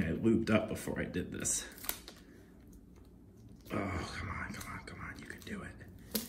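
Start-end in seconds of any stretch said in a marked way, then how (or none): 3.7-6.2 hushed come on come on; whispered urging. Real, not acted. Whispering encouragement to himself as he strains. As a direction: egg yourself on in a whisper.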